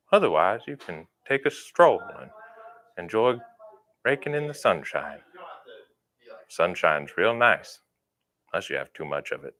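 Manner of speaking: Joe Pera voice. Acted. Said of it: "I should use my real deep, sultry voice".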